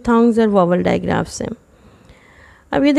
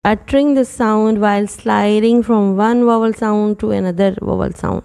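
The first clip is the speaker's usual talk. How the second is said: slow, careful English definition; much slower than usual. Shown as a demonstration. Teacher defining diphthongs slowly for students. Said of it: "slow English definition".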